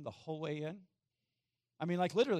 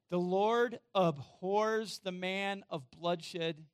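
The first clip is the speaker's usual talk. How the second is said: solemn scripture reading; 2 semitones higher, 5 dB louder, much slower than usual. Acted. Preacher reads scripture verse.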